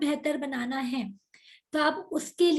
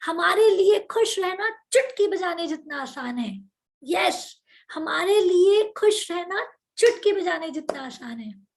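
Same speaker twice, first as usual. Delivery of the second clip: louder, energetic chant; loud affirmation; 4 dB louder than usual. Shown as a demonstration. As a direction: shout it out with feeling. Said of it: "तो जोर से करेंगे".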